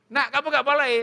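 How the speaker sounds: high-pitched acted calling voice; father calling his child. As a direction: call out to the kid, puzzled. (suara papa memanggil anaknya)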